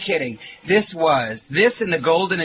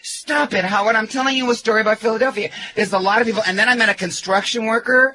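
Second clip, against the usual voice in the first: exasperated; 5 semitones higher than usual. Real, not acted. Guest protests the teasing.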